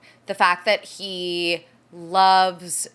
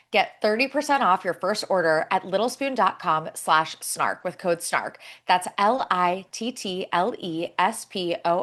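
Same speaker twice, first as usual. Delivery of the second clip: smooth, scripted sponsor read; polished host-read promo; 2 semitones lower than usual. Acted. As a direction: read it like a podcast advert. Reads a sponsor ad.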